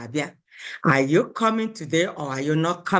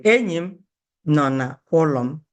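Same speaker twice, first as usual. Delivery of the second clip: ordinary talk, nothing marked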